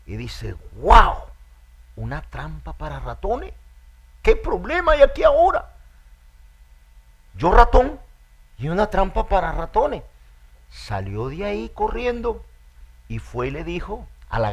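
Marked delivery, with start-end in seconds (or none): 0.7-10.0 high, loud squeak of alarm; panicked little mouse crying out; a mouse startled by a trap. A narrator's reading. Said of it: "se alarma".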